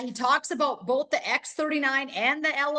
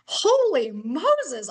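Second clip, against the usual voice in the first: stunned awe; much slower than usual. Retold or imitated. Stunned reaction to the news.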